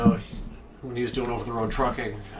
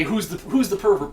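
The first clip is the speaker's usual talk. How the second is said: a hint of the Southern hick voice; retelling the trucker with only a trace of the Southern accent; light Southern accent; 7 semitones higher, 4 dB louder than usual. Retelling the trucker's CB reply with a faint Southern accent. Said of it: "that thick Southern accent".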